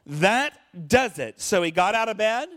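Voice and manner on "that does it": fed-up innkeeper. Acted. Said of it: "And he says".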